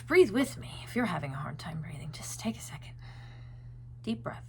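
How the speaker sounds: soft unvoiced whisper. Real, not acted. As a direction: breathe it out as a gentle whisper. Guiding a breathing moment.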